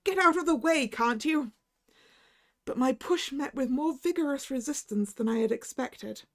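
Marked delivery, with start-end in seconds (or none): 0.1-1.5 shout. Acted. Narrator shouting at the dark figure in his path. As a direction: shove past him with a shout.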